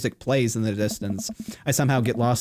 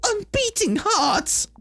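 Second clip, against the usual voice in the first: rising to high, slow vampire; 10 semitones higher, slower than usual. Acted. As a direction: build to a hammy vampire peak. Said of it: "I've been doing a vampire voice".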